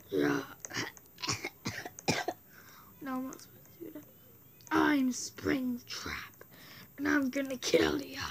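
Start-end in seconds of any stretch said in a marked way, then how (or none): 4.7-8.2 Springtrap voice. Acted. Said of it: "Springtrap voice impression".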